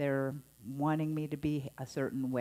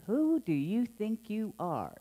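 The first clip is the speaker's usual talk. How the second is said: scolding tone; 7 semitones higher, 3 dB louder than usual. Retold or imitated. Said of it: "it's the tone of voice".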